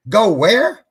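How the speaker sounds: loud, high incredulous retort; indignant disbelief. Retold or imitated. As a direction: throw the question back in outrage. Told to go to bed.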